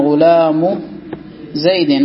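"غلام" said ghulamu, ending in bare u, then a pause; tanween dropped. Shown as a demonstration. Teacher showing annexation, "غلام" as ghulamu without tanween. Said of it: "فتقول مثلًا".

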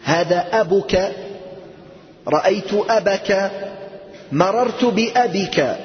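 أبك said slowly with the short form; slow model sentences. Shown as a demonstration. Teacher models the clipped form أبك for students, slowly. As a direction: read out أبك clearly and slowly. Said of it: "النقص".

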